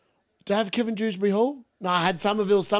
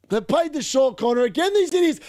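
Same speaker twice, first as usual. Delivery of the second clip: exasperated; 6 semitones higher than usual. Real, not acted. Frustrated at short corner.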